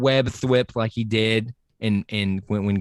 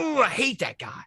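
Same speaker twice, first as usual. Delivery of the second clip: mock disgust; 12 semitones higher, 3 dB quieter than usual. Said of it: "I was like".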